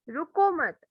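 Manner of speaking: रुको मत run together, ending in a fall before a break; pause after मत. Shown as a demonstration. Teacher showing where the comma falls, pause after मत. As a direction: say रुको मत as one group, then stop after मत. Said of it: "pausing।".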